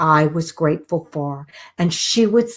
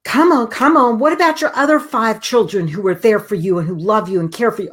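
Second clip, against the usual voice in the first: urgent coaxing; 3 semitones higher than usual. Retold or imitated. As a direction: hurry her along before she thinks. Urging mother again.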